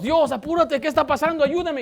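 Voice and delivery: high-pitched impatient plea; hurrying, pleading. Acted. Believer rushing God in a crisis, urgent and pleading. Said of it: "Otra vez apresuramos a Dios".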